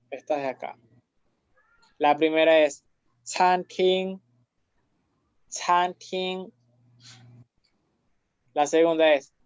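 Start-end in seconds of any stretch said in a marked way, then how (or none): 3.2-6.5 CHANTING with two level, sustained syllables; both first tone. Shown as a demonstration. Teacher reading the first example, CHANTING in two level tones. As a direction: hold both halves of CHANTING at one steady pitch. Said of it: "las dos con primer tono".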